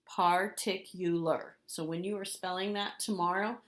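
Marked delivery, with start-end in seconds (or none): 0.1-1.6 slow, syllables broken apart. Shown as a demonstration. Teacher recaps the spelling, slowly by syllable. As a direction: break the word apart slowly. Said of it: "So break it apart".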